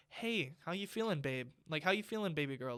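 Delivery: showing how a caring father should ask his daughter; tender dad. Shown as a demonstration. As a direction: ask gently like a loving father. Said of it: "nothing like that".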